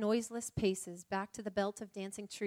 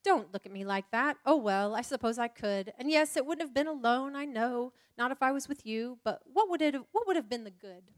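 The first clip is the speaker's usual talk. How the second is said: flustered Lucy, protesting; 2 semitones higher, 4 dB louder than usual. Acted.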